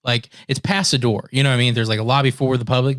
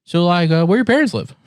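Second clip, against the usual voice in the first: higher, casual small-talk voice; friendly question; 4 semitones higher than usual. Retold or imitated. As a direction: imitate a chatty, friendly officer asking. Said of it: "like, a really friendly question".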